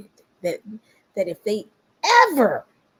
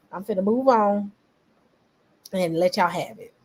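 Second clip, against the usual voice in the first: softer, resigned and over it; quiet, done; 5 dB quieter than usual. Retold or imitated. Imitating her quietly giving up the hill, resigned. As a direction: shrug it off and walk away. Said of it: "She said".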